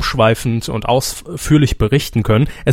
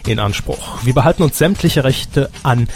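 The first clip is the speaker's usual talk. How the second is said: formal announcement. Acted. Formal legal disclaimer read.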